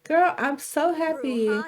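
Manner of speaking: drawn-out, gushing sisterly delight; gushing happy. Acted. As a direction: stretch it out, brimming with happiness. Sister gushes about being happy.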